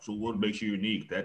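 stiff, flat, machine-like robotic delivery. Showing the wrong way to ask a girl a question: robotic delivery. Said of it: "you sound robotic".

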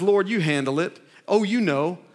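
normal talking voice

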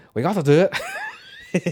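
put-on very slow, drawn-out, swooping British accent. Imitating how the actor sounds with his accent: imitating his British accent. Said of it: "sounds like he's like".

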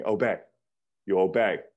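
put-on loud, sharp, curt snapping voice. Retelling how a father spoke to him as a child: imitating a sharp snapped command. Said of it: "snap at me".

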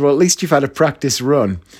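ordinary talk

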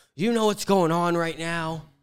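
acted hostile, angry, high-pitched yelling. Recounting a man who threatened to shoot the speaker: retelling a man yelling. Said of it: "he started yelling at me about".

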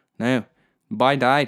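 failed, badly attempted put-on Newfoundland accent. Imitating a doctor announcing his death, failed newfoundland accent. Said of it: "I can't do a fucking Newfie accent".

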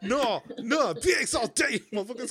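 exaggerated Bronx accent. Retelling how she suddenly hit an accent, an exaggerated bronx accent. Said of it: "She hit that Bronx accent real quick".

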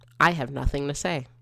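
ordinary delivery

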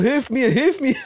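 screaming out, pleading and begging. Speaker retells a man lying on the floor, acting out his scream for help. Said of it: "er liegt dann auf dem Boden und schreit so".

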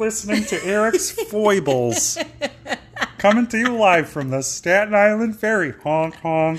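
very high-pitched, slow, announcing delivery. Announcing a made-up podcast to another speaker: Kermit the Frog voice. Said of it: "Are you doing Kermit the Frog?".

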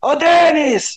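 loud, high-pitched hollered shout. Retelling how Venâncio yelled to Denis from their box, imitating Venâncio yelling. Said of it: "começou a gritar para o Denis".

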